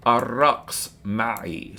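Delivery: arraqs ma'i very slowly, inviting; slow Arabic invitation. Shown as a demonstration. Teacher asking a woman to dance, slow inviting Arabic. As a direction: ask her to dance, drawn out. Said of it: "I'm asking a woman here".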